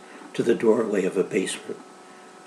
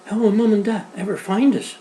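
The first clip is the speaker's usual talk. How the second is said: sobbing; 9 semitones higher, 3 dB louder than usual. Acted. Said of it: "Alice sobbed again".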